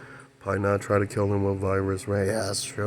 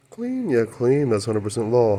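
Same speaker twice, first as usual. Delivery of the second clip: excited; 3 semitones higher, 4 dB louder than usual. Real, not acted. Excited outburst about Pi.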